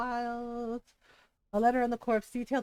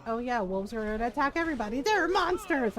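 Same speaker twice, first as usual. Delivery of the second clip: mocking alarm; 2 semitones higher, 4 dB louder than usual. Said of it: "when they're like".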